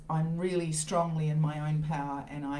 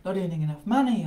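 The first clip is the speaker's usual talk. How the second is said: panicking; 4 semitones higher, 4 dB louder than usual. Retold or imitated. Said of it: "at the time, I'm panicking".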